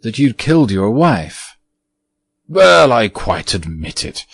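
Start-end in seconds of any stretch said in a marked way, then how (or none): 2.5-4.2 petulant. Acted. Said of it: "said the ghost petulantly".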